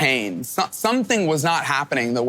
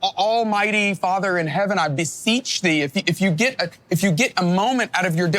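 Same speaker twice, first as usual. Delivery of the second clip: mock formal prayer; 5 semitones higher than usual. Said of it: "formal type prayers".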